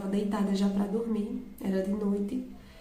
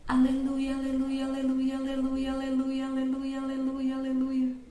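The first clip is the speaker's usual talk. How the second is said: mock nonstop shouting; 4 semitones higher than usual. Imitating voices in the audio, mock nonstop shouting. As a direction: repeat it without a breath, on one raised note. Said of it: "que gritam sem parar".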